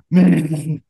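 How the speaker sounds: put-on loud, delighted baby calling Minnie; excited toddler. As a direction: squeal the name like a toddler. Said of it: "she'll be like".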